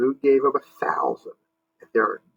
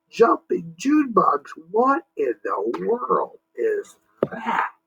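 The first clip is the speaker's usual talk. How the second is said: high gasp, then a scared slow whisper; startled Jimmy; 6 semitones higher, slower than usual. Acted. Jimmy frightened by the rumble, hushed whisper. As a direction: whisper it in shock. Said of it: "Jimmy asked".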